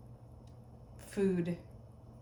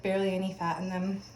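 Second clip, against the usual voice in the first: chewing gum; faster than usual. Real, not acted. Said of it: "I'm chewing gum".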